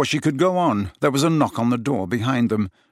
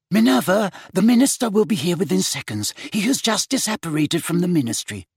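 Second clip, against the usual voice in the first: crisp, urgent portrait voice; sharp voice; 7 semitones higher than usual. A narrator's reading. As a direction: speak sharply with a warning. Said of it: "a sharp voice spoke from high on the wall".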